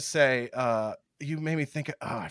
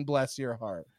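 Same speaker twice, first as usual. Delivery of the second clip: mock sweetness; 4 semitones lower, 7 dB quieter, slower than usual. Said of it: "quoting the southern saying".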